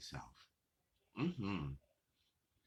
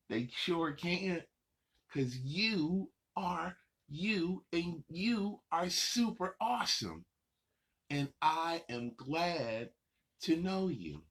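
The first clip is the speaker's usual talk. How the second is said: emphatic praise; 3 semitones higher than usual. Real, not acted. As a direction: lean in and savor each word. Praising the child viewer.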